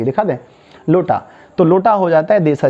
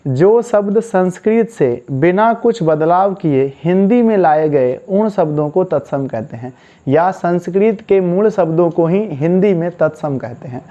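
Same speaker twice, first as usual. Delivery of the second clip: slow dictation. Shown as a demonstration. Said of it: "बोलो तो।".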